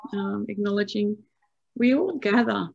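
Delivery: usual speaking voice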